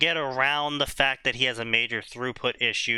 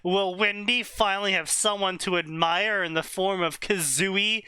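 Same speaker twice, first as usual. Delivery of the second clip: dramatic trailer-style blurb read; reading a story blurb; 3 semitones higher than usual. Acted. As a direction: announce it like a book blurb. Reads out a fanfic blurb.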